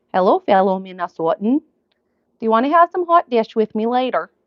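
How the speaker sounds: put-on playful Minnesota accent greeting; light mock Minnesotan accent. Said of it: "It wasn't Minnesota anymore".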